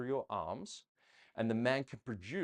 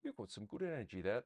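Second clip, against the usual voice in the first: softer, offhand bad British accent; terrible British accent; 7 dB quieter, faster than usual. Coach imitating fans to a dancing couple in a bad British accent. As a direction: toss off a deliberately poor British accent. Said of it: "That's my terrible British accent".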